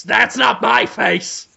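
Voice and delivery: slow, drawn-out villain denial; Cruellum Dafoe. Pretend. Villain denies resemblance to the puppies, slow mock indignation. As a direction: stretch it out as an affronted villain. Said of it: "Brendan Fraser asks Cruellum Dafoe".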